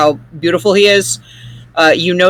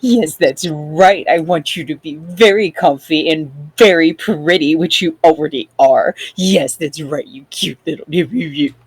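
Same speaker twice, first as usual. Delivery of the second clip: cooing to pets. Acted. Character cooing to her animals.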